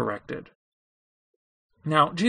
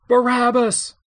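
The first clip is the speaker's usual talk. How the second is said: high, loud call for a prisoner; raised, emphatic cry; crowd's shout; 8 semitones higher, 5 dB louder than usual. A narrator's reading. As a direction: call it out as a crowd demanding someone.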